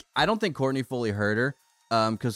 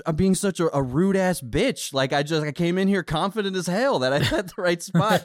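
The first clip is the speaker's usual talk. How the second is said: higher, flustered embarrassed apology; higher, rushed, mortified rambling apology; flustered stranger; 5 semitones higher than usual. Retold or imitated.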